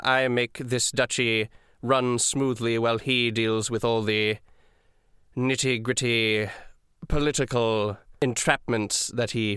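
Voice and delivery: ice-cold, deliberate formality with long pauses; dry, lightly sarcastic and self-important; haughty dragonborn official. Acted. Duke's assistant addressing his captives, coolly haughty and measured. Game master plays the silver dragonborn.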